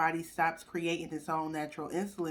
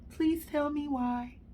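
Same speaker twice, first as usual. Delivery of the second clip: exasperated plea; 7 semitones higher, 4 dB louder, slower than usual. Real, not acted. Exasperated at radiation advice.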